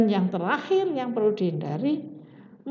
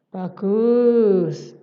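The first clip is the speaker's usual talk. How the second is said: a clipped, dull "Bagus." with no feeling; flat curt praise; 8 dB louder than usual. Shown as a demonstration. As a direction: toss off "Bagus." like it means nothing. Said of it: "jangan sampai".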